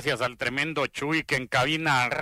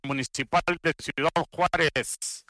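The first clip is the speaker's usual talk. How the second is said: announcer intro. Acted. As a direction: introduce the batter like an ad. Sponsored batter introduction over music.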